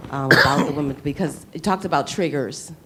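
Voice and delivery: ordinary talk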